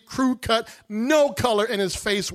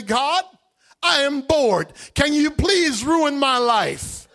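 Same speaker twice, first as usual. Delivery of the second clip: louder sarcastic plea to God; mock prayer; 4 semitones higher, 4 dB louder than usual. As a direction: pray it with ironic exasperation.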